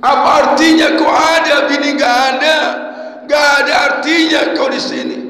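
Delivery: mock scolding. Man scolds his wedding ring.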